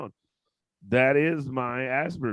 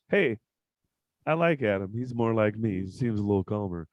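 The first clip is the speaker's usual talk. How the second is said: lowered, calm voice, mimicking a friend; imitating calm Emmanuel; 4 semitones lower than usual. Comedian imitates his calm guest Emmanuel, mildly lowered and calm. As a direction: play Emmanuel's calm, even tone. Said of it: "talking like this the whole show".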